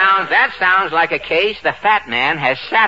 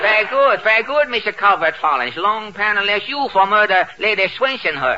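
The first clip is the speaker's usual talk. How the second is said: lightly voiced mock Chinese detective; caricatured Chinese accent making an arrest; One Long Pan; 4 semitones higher than usual. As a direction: pronounce the arrest as a hammy stage detective.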